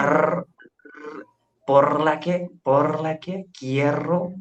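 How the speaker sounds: a light Spanish accent with a rolled r, the last por la que quiero slow; Spanish sounds. Shown as a demonstration. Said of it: "make the sound of, um, of that particular language".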